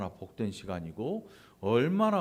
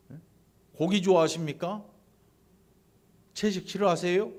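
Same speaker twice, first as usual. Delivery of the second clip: confrontational challenge; 3 semitones higher, 5 dB louder than usual. Acted. Cain blaming God for refusing his offering, acted confrontational challenge. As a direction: press each question like an accusation. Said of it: "지금 따지고 있는 것입니다".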